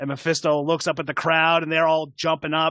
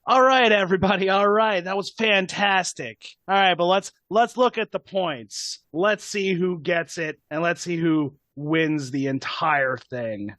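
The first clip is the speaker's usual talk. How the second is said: showman host. Acted. Mephisto addressing the crowd, lightly voiced showman. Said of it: "he steps up and he goes".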